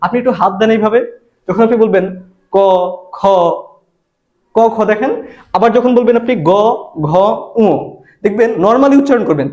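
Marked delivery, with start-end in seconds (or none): 2.6-3.2 ক, খ sounded singly with little vocal cord vibration; unvoiced consonant demo. Shown as a demonstration. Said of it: "vocal কর্ডটা অনেক কম কাঁপতেছে". 6.5-7.7 গ, ঘ, ঙ sounded singly with strong vocal cord vibration; voiced consonant demo. Shown as a demonstration. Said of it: "তখন অনেক বেশি কাঁপতেছে".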